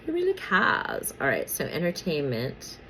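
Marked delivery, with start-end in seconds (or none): 0.1-1.1 "Who really cares?" laughed out, much higher; laughing dismissal. Real, not acted. Vlogger laughs off celebrity twin news to viewers, laughing. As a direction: giggle through a mocking repeat of "Who really cares?".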